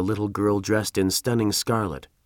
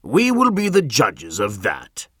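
slow, louder, a hint of a stern governor; 5 dB louder than usual. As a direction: put her in her place.

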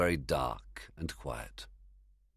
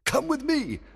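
commanding; 4 dB louder than usual. Acted. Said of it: "Oberon ordered".

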